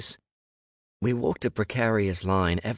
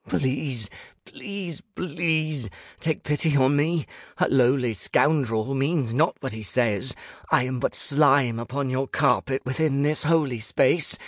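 high, pleading, theatrical supplication; grovelling prayer; 7 semitones higher than usual. A narrator's reading. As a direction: beg like a lowly wretch before gods. Grovelling prayer to bedroom gods.

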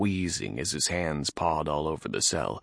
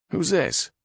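higher gruff orc; orc guard voice; 12 semitones higher, 4 dB louder than usual. Acted. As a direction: growl the question.

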